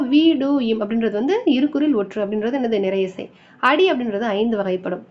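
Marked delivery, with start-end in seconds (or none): 0.0-0.8 விடும் broken into three parts, "வி, டு, இம்"; syllable by syllable. Shown as a demonstration. Teacher splitting a word for scansion, syllable by syllable. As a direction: sound out "வி, டு, இம்" piece by piece.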